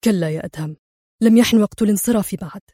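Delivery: a touch of firm resolve to himself; stern. Acted. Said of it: "ويغمغم في صرامة".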